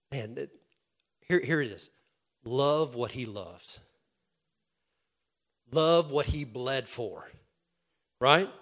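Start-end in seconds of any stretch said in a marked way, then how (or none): 2.5-3.8 slow, deliberate charge; slow pastoral emphasis. Real, not acted. Preacher's key charge. 5.7-7.3 slow, deliberate, a bit fuller; slow solemn charge; slow emphasis. Real, not acted. Preacher's key charge.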